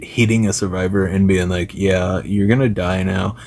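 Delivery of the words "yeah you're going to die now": usual speaking voice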